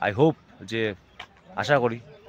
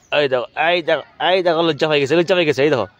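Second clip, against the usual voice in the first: excited showing; 5 semitones higher, 5 dB louder than usual. Real, not acted. Showing touch-me-not plant to someone.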